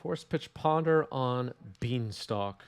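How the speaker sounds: New York accent. Real, not acted. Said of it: "bringing out my New York accent".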